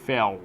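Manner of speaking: "Felt" with a dark L, tongue clear of the teeth. Shown as a demonstration. Teacher corrects the student's L, "Felt" with tongue not touching teeth. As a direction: say "Felt" with the L only leaning toward the teeth. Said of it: "não encosta a língua entre os dentes".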